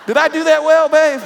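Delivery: very high and loud; cheerleader squeal. Pretend. Preacher asking babe about his cheer, high loud squeal. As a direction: ask it in a squeaky, pumped-up cheer voice.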